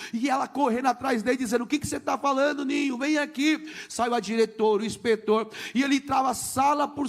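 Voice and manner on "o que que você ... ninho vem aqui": higher voice, mildly raised; retold urgent call; imitated urgent calling. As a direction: call after a child running away. Teacher calling after running child.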